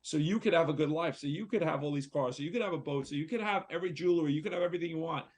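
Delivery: heated retold argument with a mild rise; retold blow-up. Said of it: "man, I just blew up".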